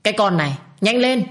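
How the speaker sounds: put-on stern old woman barking an order; shouting. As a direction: hurry her up with a sharp shout. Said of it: "Bà kéo tay Minh và quát lớn".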